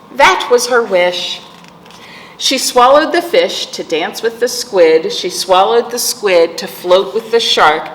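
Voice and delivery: sing-song rhythmic read-aloud; reading to children. Acted. Teacher reading a picture book to kids, sing-song. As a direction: lilt the rhyme for little listeners.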